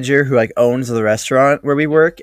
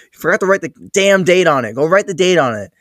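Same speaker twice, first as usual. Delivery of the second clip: mock scolding boss; 5 semitones higher than usual. Acted boss scolding the employee.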